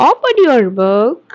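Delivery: very slow and deliberate; slow model sentence. Shown as a demonstration. Teacher models the sentence slowly for students to repeat. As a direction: stretch every word for learners to copy. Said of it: "Repeat after me".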